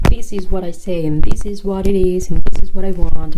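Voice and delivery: firm. Acted. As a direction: assertive list, building in force. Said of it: "instead of being firm".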